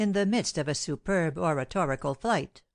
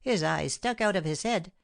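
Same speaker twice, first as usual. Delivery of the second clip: servant gabbling the news, slightly raised; lightly voiced fussy servant, eager to tell; a hint of a gossiping servant; excited servant. Baptiste recounting to the men.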